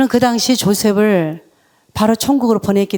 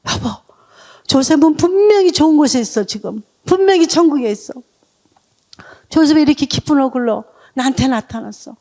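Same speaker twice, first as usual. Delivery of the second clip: joyful telling; 4 semitones higher than usual. Retold or imitated. Wife tells husband their son is in heaven, excited. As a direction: tell him the good news, voice lifted.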